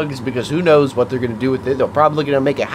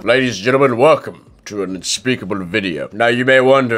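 put-on host voice; 5 semitones lower than usual. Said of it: "why are you talking like this?".

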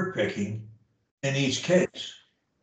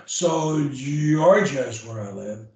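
slow model sentence; 2 semitones lower than usual. Shown as a demonstration. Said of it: "model sentence".

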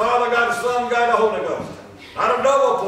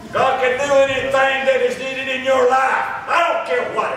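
raised, emphatic preacher's delivery; full-force preaching; 6 semitones higher than usual. Real, not acted. Preacher assuring the congregation of God's provision, emphatic preaching. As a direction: drive the promise home to the congregation.

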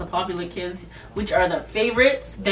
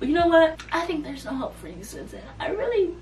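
high-pitched mock teacher giving up; put-on higher voice of exasperation; mimicked exasperated teacher; 8 semitones higher, 3 dB quieter than usual. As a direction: imitate a fed-up teacher, pitched up.

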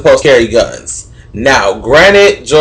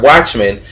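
"watchman" with weight on the first syllable; emphasize the "watch" in "watchman"; stress on watch; 3 semitones lower than usual. Shown as a demonstration. Explaining the word to viewers, stress on the "watch" in "watchman". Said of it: "emphasize the word watch".

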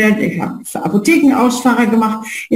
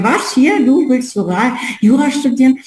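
mildly irritated retold question, pitched up; irritated father; 4 semitones higher than usual. Father questioning his child's plan to study law, mildly irritated. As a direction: imitate a father taken aback, a touch irritated. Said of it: "irritiert und meinte".

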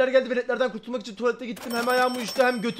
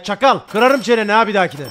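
louder, playful menace; mock threat; 9 dB louder than usual. Streamer mock-threatening a game worker, loud. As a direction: pretend to scold the worker.

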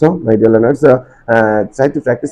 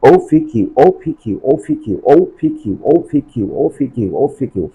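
rhythmic drill of ওপিকিউ, letters joined as one word; repetition drill; 2 semitones higher, much slower than usual. Shown as a demonstration. Teacher leading learners in practice, rhythmic repetition drill. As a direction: run ওপিকিউ together in even, repeated bursts. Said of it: "try to practice with me".

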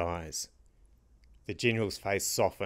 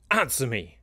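a touch of a snarl, slightly louder; 4 semitones higher, 3 dB louder than usual. A narrator's reading. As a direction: demand it through clenched anger. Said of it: "the general snarled".

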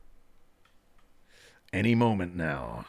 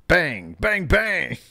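excited bangs; 8 semitones higher, 5 dB louder, slower than usual. Acted. Reading a chat message in voice.

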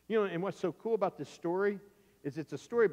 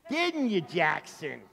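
pointed prompting; slower than usual. Acted. Sister corners brother in front of grandma, pointed. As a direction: lean on the question knowingly.

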